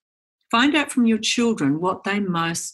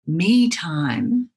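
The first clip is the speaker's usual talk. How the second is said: whispered aside; 2 semitones lower than usual. Retold or imitated. Mocking elusive me time.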